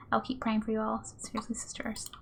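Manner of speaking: soft whispered sign-off; whispering. Acted. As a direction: breathe the words. Whispered letter ending.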